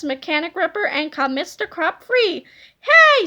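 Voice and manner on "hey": high, loud scream; sudden shrieking Hey. A narrator's reading. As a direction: yell it in outrage. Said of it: "screamed Big Tippy".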